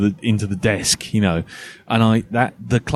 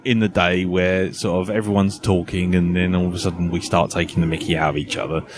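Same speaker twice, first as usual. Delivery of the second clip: ordinary delivery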